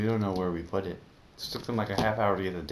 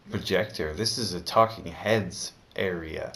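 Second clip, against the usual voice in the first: grumpy guard; 3 dB louder than usual. Retold or imitated. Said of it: "the security guard was like".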